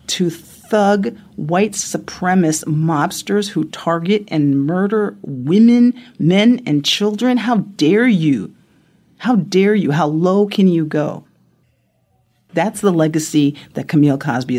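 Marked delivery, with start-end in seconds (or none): 0.1-7.4 shaking with anger. Real, not acted. Angry outcry at Cosby's wife. 7.4-8.5 shaking with anger. Real, not acted. Repeated angry rebuke. 9.2-11.2 shaking with anger. Real, not acted. Angry outcry at Cosby's wife.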